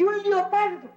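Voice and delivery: "leopardo" said as "liopardo"; "leopardo" with i in place of e; childish mispronunciation. Acted. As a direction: glide "leopardo" into lio-par-do with an i.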